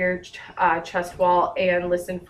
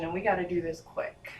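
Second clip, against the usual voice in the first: whispering; 7 dB quieter, faster than usual. Real, not acted. Hurried aside while examining.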